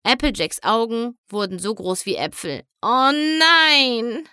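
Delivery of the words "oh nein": high, loud frightened cry; alarmed. Acted. Applejack frightened, eyes wide.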